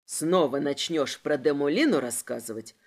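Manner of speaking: low, gentle menace; mock-tender threat. A narrator's reading. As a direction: promise harm affectionately. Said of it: "ласково пообещал инспектор".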